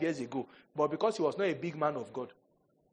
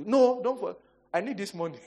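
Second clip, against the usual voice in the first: high, loud insistent cry; I need this money, shouted; loud protest; 6 semitones higher, 7 dB louder than usual. Pretend. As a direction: cut them off, demanding the cash. Pastor refusing to forgive.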